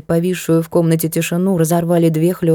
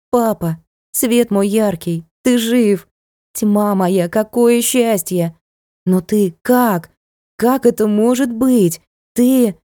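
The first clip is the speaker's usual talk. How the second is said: overjoyed disbelief; 4 semitones higher, slower than usual. Acted. Daughter overwhelmed seeing father alive.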